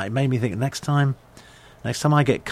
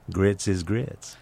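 Southern waitress; 3 dB quieter, much slower than usual. Retold or imitated. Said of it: "she just said".

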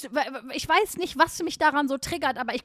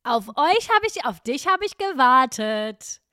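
street fundraiser; 4 dB louder than usual. Retold or imitated. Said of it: "mit so einer Scheiße dich ansprechen".

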